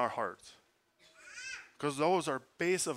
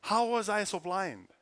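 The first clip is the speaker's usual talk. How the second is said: amazed self-reproach; 6 semitones higher, 5 dB louder than usual. Real, not acted. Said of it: "self-rebuke, high and slow".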